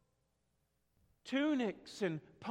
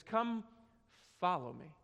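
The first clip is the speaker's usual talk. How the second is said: tender call; 3 semitones lower than usual. Acted. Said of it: "Can you just hear that voice?".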